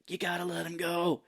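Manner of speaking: urgent retold command; calling out. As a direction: call it out like a rescuer. Retold rescue diver calling out.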